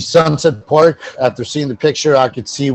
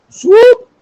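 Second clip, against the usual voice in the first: excited cheer; 10 dB louder than usual. Real, not acted. Cheering for the Osprey mascot.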